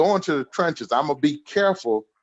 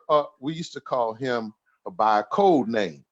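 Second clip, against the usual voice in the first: ordinary delivery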